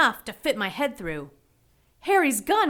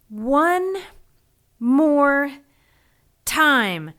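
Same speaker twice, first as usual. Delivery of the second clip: one more push, whispered then grunted; strained whisper; much slower than usual. Acted. Poppy bracing to pry the shed door, straining. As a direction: gather strength for a last heave.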